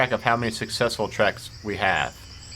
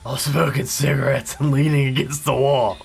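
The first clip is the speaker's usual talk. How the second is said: shadow impression; 4 dB louder than usual. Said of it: "Is that a good shadow impression?".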